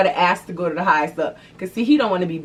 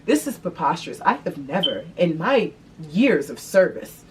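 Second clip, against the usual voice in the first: proper concerned voice. Retold or imitated. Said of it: "I came back and I said".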